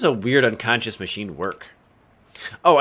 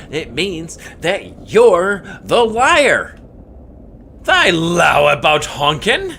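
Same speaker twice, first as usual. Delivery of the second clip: high, loud, slow archaic tree voice; accusing tree; 5 semitones higher, 5 dB louder, much slower than usual. Acted. Tree accusing the woodcutter of lying, high and slow. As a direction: denounce the liar like an old tree spirit. Voicing angry tree character.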